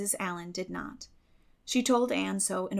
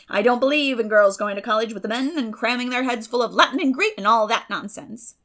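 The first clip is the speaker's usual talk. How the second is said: loud, much higher bustling gossip; hearty, opinionated neighbour, loud and high; Mrs Lynde's voice; 4 semitones higher, 9 dB louder than usual. A narrator's reading. Mrs Lynde holds forth.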